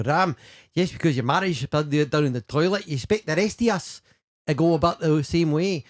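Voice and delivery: the line run together in thick Scottish; Scottish shortcuts. Shown as a demonstration. Showing the host a Rab expression with Gaelic shortcuts, Scottish accent. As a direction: say it in clipped-together Glasgow Scottish. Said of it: "Those, those Gaelic shortcuts".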